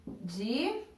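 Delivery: "Divididas" softly, in isolated syllables with long gaps. Shown as a demonstration. Teacher writing the word out, "Divididas" in widely spaced, soft syllables. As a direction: say "Divididas" one lone syllable at a time. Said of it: "Qual foi a minha sílaba tônica".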